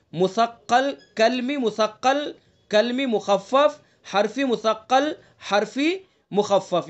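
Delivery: مثقل with a doubled k-sound, مخفف with a clear kh and f, said slowly; correct pronunciation. Shown as a demonstration. Teacher modelling pronunciation for students to copy. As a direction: say each term slowly with careful Arabic sounds. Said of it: "جس طرح میں بول رہا ہوں".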